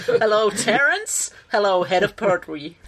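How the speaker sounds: put-on a half-hearted American accent, giggling through it; a weak American accent that keeps slipping. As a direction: attempt an American accent and lose it. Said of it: "And I can't do that".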